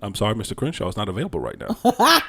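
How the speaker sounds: formal phone voice; polite debt collector on the phone; bill collector voice. Pretend. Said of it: "This is my bill collector's voice".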